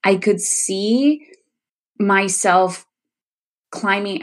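slow, halting, pausing between phrases; real emotion rising, words coming haltingly; getting emotional. Real, not acted. Recalling her hypnotherapy vision, getting emotional. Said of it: "here it comes again, these emotions".

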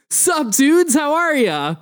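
high, drawn-out dude greeting; laid-back dude staffer. Acted. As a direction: greet the kids like a zoinked slacker. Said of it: "and he's like".

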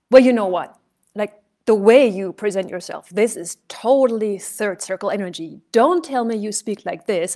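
a heckler objecting to her delivery; challenging heckler. Retold or imitated. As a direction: call her out loudly. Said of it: "And he said".

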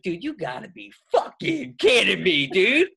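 hammed-up yell at the caller; retold outburst. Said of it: "And I was like".

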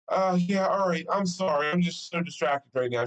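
flustered apology. Retold or imitated. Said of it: "I'm like".

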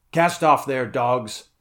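loud seafaring order; captain's command. A narrator's reading. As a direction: send the crew to work. Conan orders the crew to sail.

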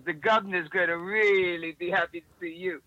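imitated Cockney accent; lightly put-on Cockney, like a chummy bodyguard. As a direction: retell it in a Cockney voice. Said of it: "he was Cockney".

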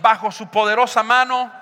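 firm declaration in measured phrases; strong declaring voice. Shown as a demonstration. Preacher leading congregation to repeat after him, strong voice. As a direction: lead the crowd in a forceful declaration. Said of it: "Di con voz fuerte".

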